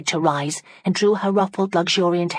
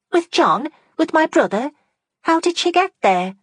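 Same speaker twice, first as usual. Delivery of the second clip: put-on high, shocked young woman; shocked disbelief; 12 semitones higher, 5 dB louder than usual. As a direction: gasp it out in disbelief. Fanny startled at news.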